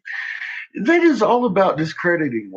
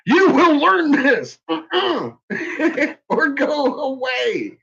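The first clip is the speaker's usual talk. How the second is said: stern teacher; 8 semitones higher, slower than usual. Pretend. Mock strict teacher.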